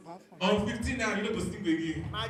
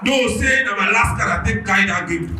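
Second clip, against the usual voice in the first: shouting complaint; 6 dB louder than usual. Real, not acted. Heckler complains about betting loss.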